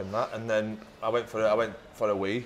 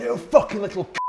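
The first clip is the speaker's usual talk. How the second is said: retold shouted abuse; 7 semitones higher, 4 dB louder than usual. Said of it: "you'll be like".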